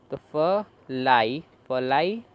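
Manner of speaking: फ लाई split slowly into two sounds; slow, break फ लाई into parts; sounding out syllables. Shown as a demonstration. Teacher blending letters slowly for the class. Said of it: "इसे हम पढ़ रहे हैं आई".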